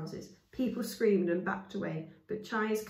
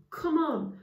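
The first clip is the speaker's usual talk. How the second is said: urgent; 9 semitones higher, 5 dB louder than usual. Acted. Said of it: "Gamage said urgently".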